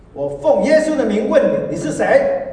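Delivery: loud, slow, high rebuke of a demon; commanding shout. Retold or imitated. Elder loudly confronting the possessed sister. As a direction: cast the spirit out with full force.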